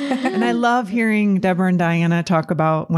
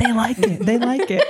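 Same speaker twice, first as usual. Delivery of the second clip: laughing; 3 semitones higher than usual. Retold or imitated. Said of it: "I'm like".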